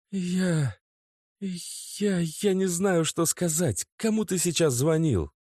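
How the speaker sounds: put-on high, faltering girlfriend on tears; voice breaking. A narrator's reading. Natasha, crying, stammers at Oleg. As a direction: stumble through tears. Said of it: "Голос её лопнул".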